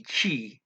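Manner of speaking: final T E pronounced "chi", like "chee". Shown as a demonstration. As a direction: sound out "chi" as the word ending. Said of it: "at the end of a word".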